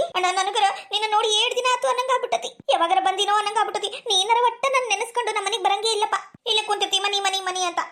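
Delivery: plaintive, mildly weepy grumble; tearful complaint. Acted. Sister reproaching her brother for never visiting, tearful. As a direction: complain as if close to tears. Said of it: "ಯಾಕ್ ಅಳ್ತಿ?".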